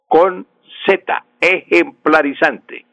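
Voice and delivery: slow spelling demo. Shown as a demonstration. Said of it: "no se escribe con S, sino con Z".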